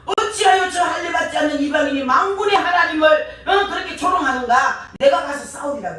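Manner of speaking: high, forceful indignant challenge; bold defiance. Retold or imitated. Young David answering the giant's mockery of God, bold and indignant. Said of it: "담대하게".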